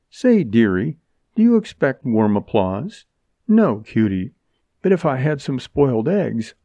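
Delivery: lightly voiced mocking young woman; sarcastic heroine. Jerry taunts the man in the bandit mask, sarcastically. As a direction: needle him with dry, teasing contempt.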